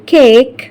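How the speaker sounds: "cake" with the long A said like the letter name; "cake" sounds like the letter A. Shown as a demonstration. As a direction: stretch the A in "cake". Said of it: "اتنطقت A".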